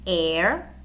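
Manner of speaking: HEIR with no H sound; silent H. Shown as a demonstration. Teacher showing silent-H words, Heir with H dropped. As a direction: say "Heir" starting on the vowel. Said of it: "in which the H is silent".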